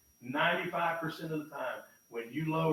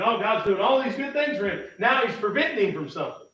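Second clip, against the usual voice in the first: higher and louder, puzzled; voicing a reader's confusion, much higher and louder; puzzled exclamation; 7 semitones higher, 9 dB louder than usual. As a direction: sound baffled by the verse.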